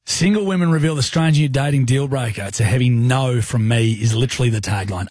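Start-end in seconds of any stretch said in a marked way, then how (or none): 2.4-3.9 "heavy" given the main weight; stress on heavy. Retold or imitated. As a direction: lean on the word "heavy". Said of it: "Emphasis on the heavy".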